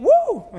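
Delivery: very high, loud whoop; piercing comic woo; mock alarmed woo. Preacher teases about a deleted playoff game, shrieked mock woo.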